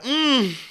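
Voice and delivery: high strained hum; mock stifled cry. Shown as a demonstration. Showing how one holds back tears, high stifled mm. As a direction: act out holding in a sob. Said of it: "You're just there like".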